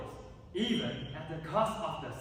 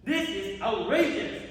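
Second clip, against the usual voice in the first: outraged; 3 semitones higher, 3 dB louder than usual. Acted. Brother protests losing the throne.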